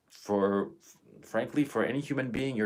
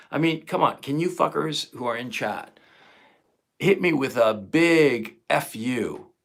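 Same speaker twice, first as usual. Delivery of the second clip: louder, pitched-up rallying demand; fired-up call to chat; 3 semitones higher, 6 dB louder than usual. Real, not acted. Streamer urging his chat to agree, loud and fired up. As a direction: whip the chat into shouting back with you. Rallies chat to share outrage.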